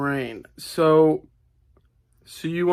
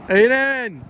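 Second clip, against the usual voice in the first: raised-pitch call to a friend; 6 semitones higher than usual. Real, not acted. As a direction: call the name out, drawn out and higher. Calling out to Aiden.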